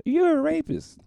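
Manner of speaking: very high, loud heckler yell; heckler shout. Retold or imitated. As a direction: shout it from the crowd. Repeating heckler.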